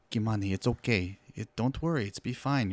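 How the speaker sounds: put-on lightly accented Hispanic mother; slight Hispanic accent. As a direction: reassure with a hint of a Hispanic accent. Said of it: "it just is a very slight thing".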